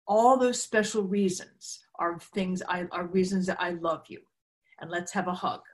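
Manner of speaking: put-on mother hugging her little girl, softly tender. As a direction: ease down into a cuddle. Mother hugging daughter, tender words.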